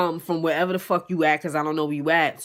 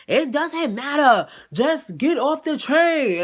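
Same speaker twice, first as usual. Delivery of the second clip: curt order; 8 semitones higher, 4 dB louder, slower than usual. Retold or imitated. Mimicking boyfriend's curt order.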